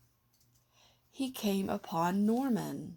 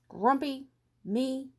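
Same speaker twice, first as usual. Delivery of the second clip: higher and louder, offended question; indignant disbelief; 7 semitones higher, 5 dB louder than usual. Acted. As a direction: scoff at the suggestion. Jim denies being grumpy again.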